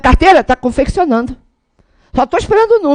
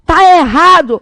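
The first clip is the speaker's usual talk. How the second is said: mock scolding yell, higher and drawn out; bronca gritada de mentira; 5 semitones higher, 3 dB louder, slower than usual. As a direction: pretend to yell a telling-off. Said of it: "se eu tiver que gritar". (bronca encenada, quase gritando)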